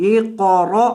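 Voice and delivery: اقرأ with a thick qaf and a sharp jolt on the final hamza; heavy qaf, glottal stop. Shown as a demonstration. Teacher showing students how to say اقرأ, heavy qaf. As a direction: say اقرأ with heavy ق and a clipped glottal catch at the end. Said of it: "قاف کو موٹا کریں گے اور حمزہ کو جھٹکا".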